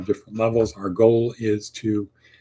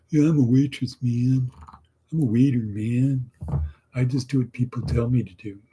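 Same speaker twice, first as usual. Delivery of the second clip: bored waiter; 3 semitones higher than usual. Retold or imitated. Mocking an order-taker waiter.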